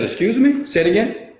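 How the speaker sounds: high, loud startled question; stunned disbelief. Retold or imitated. Speaker retelling his shock at the income, high startled question. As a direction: jolt up in disbelief at the number. Hearing an insane income figure.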